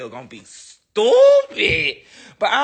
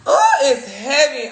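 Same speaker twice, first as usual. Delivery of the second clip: high nervous half-laughing wail; scared; 5 semitones higher, 3 dB louder than usual. Real, not acted. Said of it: "I'm scared".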